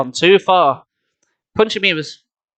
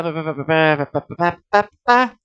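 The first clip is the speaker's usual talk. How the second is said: idle babbling. Real, not acted. Finding place in book.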